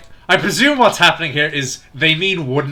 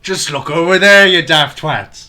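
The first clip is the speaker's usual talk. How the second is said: louder, slower exasperated yell; 3 semitones higher, 7 dB louder, slower than usual. Real, not acted. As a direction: yell at the clueless characters. Exasperated yelling at the characters.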